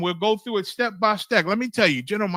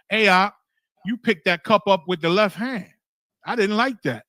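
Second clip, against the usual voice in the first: complaining brother; 2 semitones higher, 5 dB louder than usual. Acted.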